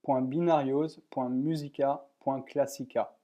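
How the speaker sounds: mild Spanish accent on the group name. Shown as a demonstration. Tutor reading a Spanish newsgroup name aloud, light Spanish accent. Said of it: "désolé pour mon accent espagnol".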